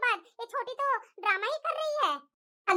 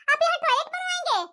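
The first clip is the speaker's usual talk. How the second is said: higher-pitched wifely protest; scolding, raised-pitch challenge; annoyed objection; 3 semitones higher than usual. Acted. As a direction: object indignantly, pitch held up. Wife objects to toilet repair.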